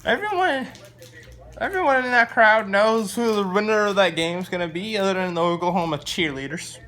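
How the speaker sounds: mock announcer. Fan mocking the broadcast, hammed-up announcer voice. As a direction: boom it out like a TV announcer.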